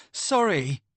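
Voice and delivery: high, scornful mimicking of the apology; mocking echo. A narrator's reading. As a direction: throw his own word back at him with contempt. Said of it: "snarl in anger".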